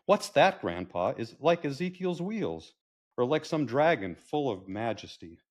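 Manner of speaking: a hint of wondering child, pitch leaping up; lightly voiced granddaughter. Granddaughter marvelling at grandpa's car, lightly voiced child. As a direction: lightly play an awed grandchild. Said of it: "grandfather passing along a legacy to his granddaughter".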